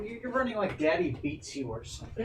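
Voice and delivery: high, laughing teasing. Real, not acted. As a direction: laugh at the dog. Laughing at dog running.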